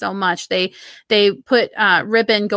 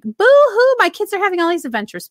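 mock whining; 9 semitones higher, 3 dB louder than usual. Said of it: "So I'm like".

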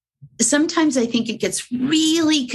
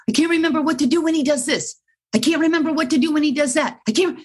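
mock whiny student, fast and higher; flustered student; 6 semitones higher, much faster than usual. A student complaining to the trainer, fast, high mock panic. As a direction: gabble it like a panicked handler.

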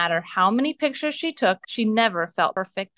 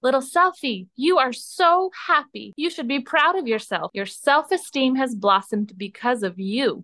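higher, enchanted mirror voice full of pride; magical mirror voice; 3 semitones higher than usual. Acted. Magic mirror praising Little Selfie's growth, higher and enchanted. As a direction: sound like a kind magic mirror praising her. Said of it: "the most magical and mirrory voice filled the forest".

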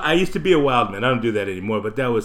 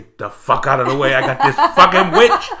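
yelling at people; 7 dB louder than usual. Retold or imitated. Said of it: "I was telling people".

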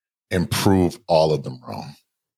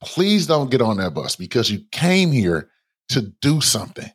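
pleading inner voice; 4 semitones higher than usual. Retold or imitated. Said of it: "my heart is like".

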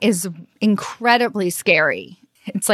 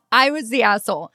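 laughing through "I was the asshole"; real laugh on "I was the asshole". Real, not acted. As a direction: say "I was the asshole" while really laughing at yourself. Laughs at her own realization.

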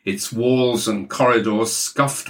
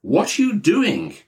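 raised high demanding shout; Maxwell shouting; 8 semitones higher than usual. Acted. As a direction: yell it down the phone. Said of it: "Maxwell was shouting down the line".

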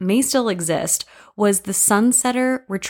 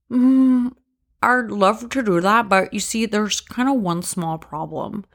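coy lover; 3 semitones higher than usual. Acted. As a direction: tease him sweetly, then hesitate. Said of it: "go something like this".

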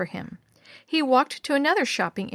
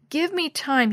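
pleading; 6 semitones higher than usual. Acted. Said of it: "he pleaded".

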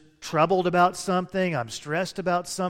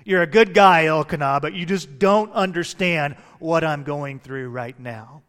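exasperated wife; 6 dB louder than usual. Retold or imitated. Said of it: "Hannah was probably like".

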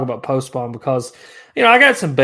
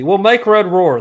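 mock roar; 6 semitones higher, 6 dB louder, slower than usual. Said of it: "There's my roar".

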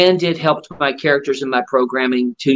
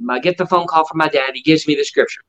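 ordinary talk, nothing marked

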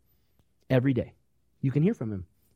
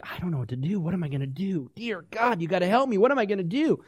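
soft, anxious fretting; a hint of despair, pleading; mock panic; 4 dB quieter than usual. Believer losing faith, mildly panicked prayer. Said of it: "we're like".

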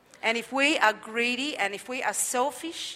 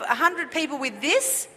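higher-pitched incredulous challenge; insolent questioning; 4 semitones higher, 4 dB louder than usual. Retold or imitated. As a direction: scoff at the order, imitating the doubting servant. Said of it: "and certainly questioning".

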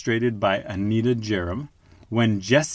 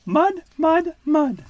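put-on very high, sulky baby duck voice; grumpy duckling; 4 dB louder, slower than usual. A narrator's reading. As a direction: whine each word like a cross duckling. Baby Duck repeats complaint.

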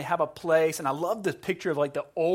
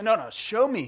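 raised, insistent sensei order; insistent command; 5 semitones higher than usual. Retold or imitated. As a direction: cut in firmly as the teacher. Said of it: "He shouts at him".

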